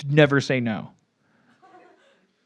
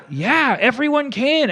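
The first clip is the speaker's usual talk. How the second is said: flustered new worker; 10 semitones higher, slower than usual. Acted.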